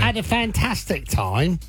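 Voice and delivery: slow, affected Cockney brag; mock Cockney accent. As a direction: draw it out in put-on Cockney. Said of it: "came back with a Cockney accent".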